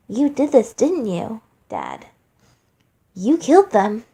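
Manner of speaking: put-on accusing child. Flowey accuses his father.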